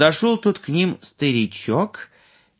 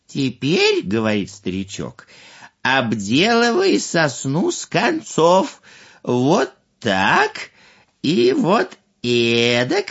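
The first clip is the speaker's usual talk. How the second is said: put-on wise old man advising. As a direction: teach patiently, showing how. Old man instructs again.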